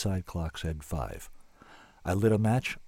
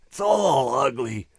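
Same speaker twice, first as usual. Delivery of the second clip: sobbing gently; 6 semitones higher, 7 dB louder, slower than usual. Acted. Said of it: "and sobbed gently".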